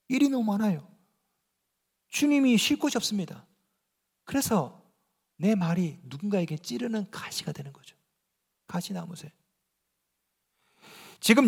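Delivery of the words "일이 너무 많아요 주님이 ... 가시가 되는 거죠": ordinary talk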